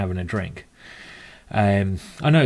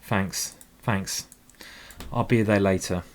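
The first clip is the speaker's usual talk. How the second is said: mock tearful thanks; 4 semitones lower, 6 dB quieter than usual. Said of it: "all I can say is".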